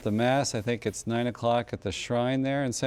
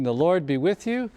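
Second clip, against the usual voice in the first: solemn blessing, each phrase intoned and falling; priestly blessing. Acted. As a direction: priest closing the show with a formal blessing. Priest gives closing blessing.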